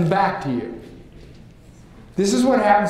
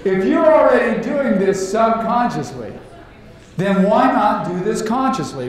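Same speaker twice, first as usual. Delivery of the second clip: emphatic; 4 semitones higher than usual. Real, not acted. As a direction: drive the point home with energy. Emphatic key point to audience.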